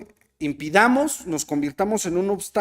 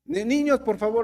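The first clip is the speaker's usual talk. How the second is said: apostolic attitude; 5 semitones higher than usual. Retold or imitated. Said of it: "la actitud apostólica".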